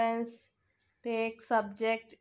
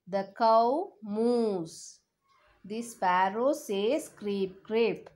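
put-on reading to a toddler. Teacher reads song to children.

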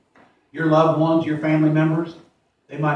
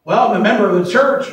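mock proud claim; 5 semitones higher, 5 dB louder than usual. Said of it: "they're lost".

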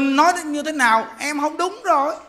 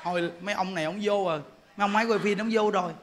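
softer, quick private thought; imitated inner voice; 3 semitones lower, 8 dB quieter, faster than usual. Speaker fretting silently before the camera crew, hushed. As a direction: say it under the breath to yourself. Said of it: "Trong bụng mình nói".

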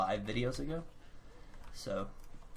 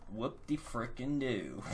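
sarcastic; slower than usual. Retold or imitated. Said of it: "everybody's like".

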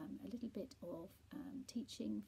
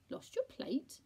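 loud, high puzzled question; hard-of-hearing confusion, pitched up; deaf friend; 8 semitones higher, 7 dB louder, slower than usual. A narrator's reading. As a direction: mishear it and ask back loudly. Deaf Percy mishears.

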